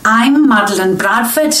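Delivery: a dialect coach's shaky Scouse, slipping between regions; wandering Liverpool accent. Acted. Dialect coach showing off her Liverpool accent, drifting Scouse. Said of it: "guess what accent she's doing".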